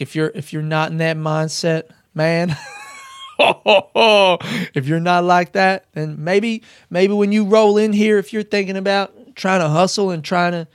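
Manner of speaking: attempted American star accent, breaking into laughs; Matthew McConaughey. Warning hustling newcomers to town, imitated McConaughey accent. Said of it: "I can't do the fucking accent".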